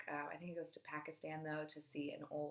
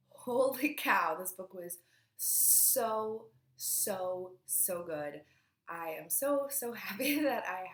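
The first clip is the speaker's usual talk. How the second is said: excited gush; 8 dB louder, slower than usual. Real, not acted. Gushing over a loved book.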